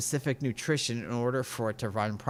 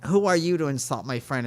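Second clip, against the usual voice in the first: mock angry outburst; 3 semitones higher than usual. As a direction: pretend to lose your temper at him. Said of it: "if I would have been that angry person".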